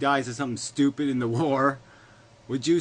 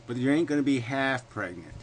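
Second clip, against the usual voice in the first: Southern drawl. Real, not acted. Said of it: "all of a sudden Southern".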